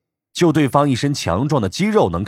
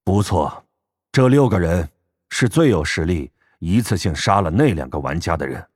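lightly voiced old man, low and measured; a hint of an old man laying out facts; 5 semitones lower than usual. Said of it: "老头儿说".

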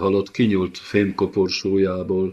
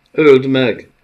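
a loud, high yell of "Öld meg!"; desperate shout "Öld meg!" to the hesitating nomad; shouted command; 6 semitones higher, 9 dB louder than usual. A narrator's reading. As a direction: scream "Öld meg!" with full force. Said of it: "kiáltotta Felice".

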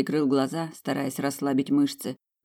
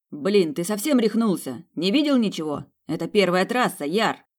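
scolding; 5 semitones higher than usual. Acted. Scolding brother after crash.

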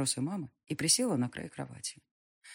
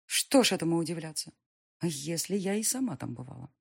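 calm matter-of-fact. Acted. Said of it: "спокойным, будничным тоном".

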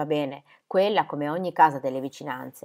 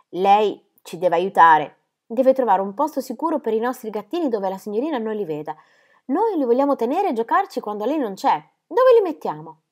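put-on Clara, earnest young girl; 4 semitones higher, 3 dB louder than usual.

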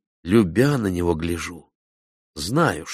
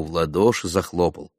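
plain reading voice

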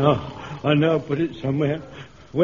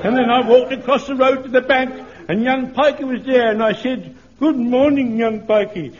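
higher and louder, tumbling out; excited retelling; 5 semitones higher, 5 dB louder than usual. Acted. Clerk rushing through his story for the officer, louder. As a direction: rush the story out, near breathless.

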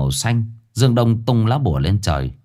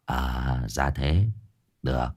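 lower, calm big-brother voice; Dương Đông, low and amused; 8 semitones lower, 3 dB quieter than usual. Acted. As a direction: grant the favour with easy authority. Dương Đông nói với vong.

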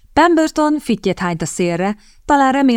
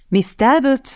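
higher-pitched repeat of the name; repeated address; 7 semitones higher, slower than usual. A narrator's reading. Pemberton seems to repeat her name in the garden, higher. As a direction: repeat the name with a lifted, falling tune. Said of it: "ismételte Pemberton".

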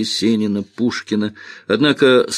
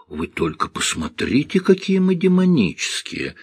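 какие pitched high, mock-grand and teasing; mock his gloomy pose, lifting какие high; laughing mockery; 11 semitones higher than usual. Girl laughing at the young man's gloomy talk, high and teasing. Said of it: "рассмеялась она".

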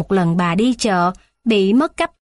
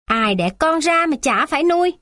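a touch of sharp retort, pitched higher; arguing back; 7 semitones higher than usual. A narrator's reading. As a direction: son snapping back at his mother, mildly. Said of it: "bố tôi cãi". (cãi lại, hơi gắt)

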